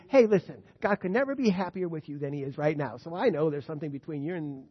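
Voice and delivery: loud, breezy, self-assured reassurance; mocking the complacent believer's breezy "God thinks you're wonderful". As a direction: sell the easy comfort like a glib friend. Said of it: "when we believe".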